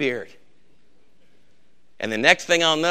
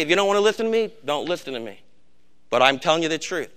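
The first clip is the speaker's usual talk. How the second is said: calm voice; faster than usual. Retold or imitated. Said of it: "they might do it in a really calm voice".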